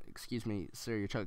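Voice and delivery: soft, meekly polite imitation; polite plea. Friend held by the neck addressing an angry man, meekly polite. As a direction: plead politely and quietly. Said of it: "we were trying to be polite".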